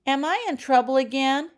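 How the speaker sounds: a sudden anxious blurt; high, loud panicked blurt. A narrator's reading. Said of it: "she blurted".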